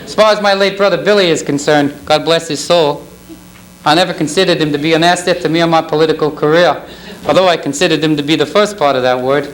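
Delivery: lightly voiced politician on stage; Jimmy Carter. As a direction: do a mild impersonation of a former president. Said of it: "My name is Jimmy Carter".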